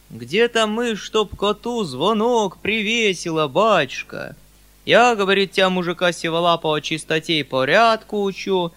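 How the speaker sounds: громкая, высокая крестьянская жалоба с растяжкой; жалуйся как мужик, громко и протяжно; мужик-жалобщик. A narrator's reading. Мужик жалуется на Фому. (протяжный мужицкий говор)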